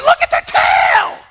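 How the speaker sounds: high, loud breathy cry of wonder; mock breathy thrill. Tourists snapping pictures of the tail, breathy mock awe. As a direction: gasp it out with awe. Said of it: "And everybody's like".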